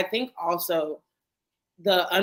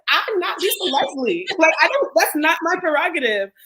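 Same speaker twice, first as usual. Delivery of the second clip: incredulous refusal; 7 semitones higher, 6 dB louder than usual. Retold or imitated. Teen refuses uncles' training, higher and louder. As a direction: push back at uncles, mock-offended. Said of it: "And I was like".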